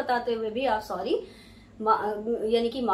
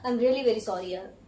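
sincere apology; 4 semitones lower, much slower than usual. Shown as a demonstration. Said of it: "अगर आपने इस तरह से कहा".

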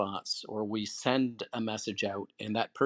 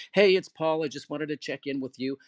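pleasant voicemail. Shown as a demonstration. Paul leaves a friend a pleasant voicemail, cheerful. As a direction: leave a friendly check-in message. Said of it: "whatever it is".

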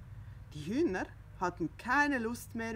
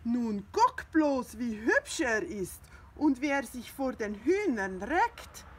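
proud; 3 semitones higher, 5 dB louder than usual. Acted. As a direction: show off the rooster proudly. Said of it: "sagte Pettersson stolz".

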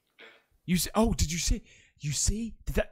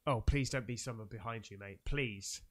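scared plea; 12 semitones lower, 13 dB quieter than usual. Real, not acted. Scared viewer pleading at screen.

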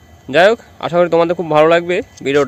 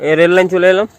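talking with a toothbrush in mouth; brushing teeth. Real, not acted. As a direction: speak around a toothbrush while brushing. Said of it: "সকালে brush করতে করতে".

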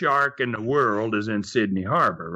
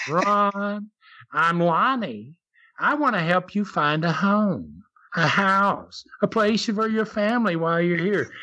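imitating Jim; 3 semitones higher than usual. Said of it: "just like Jim".

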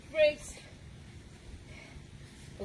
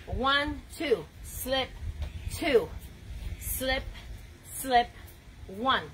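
boxing coach calling combos; much slower than usual. Shown as a demonstration. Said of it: "We gotta train this one".

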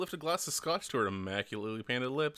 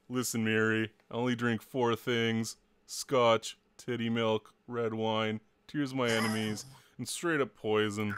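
lowered, deadpan voice listing vices; haughty Vera; 2 semitones lower than usual. Acted. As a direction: list them coolly, unimpressed.

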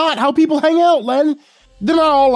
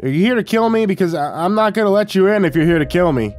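high, louder challenge through a door; calling out; 10 semitones higher, 5 dB louder than usual. A narrator's reading. Narrator to visitor behind the door, calling out. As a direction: call out in high-pitched alarm. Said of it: "stepped away from the door and called out".

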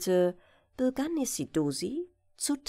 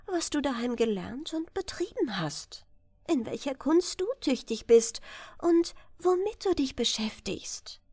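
gentle princess; 3 semitones higher than usual. Acted. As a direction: kindly coax the prince to speak, a hint of a sweet young lady. Princess asks prince about his skills.

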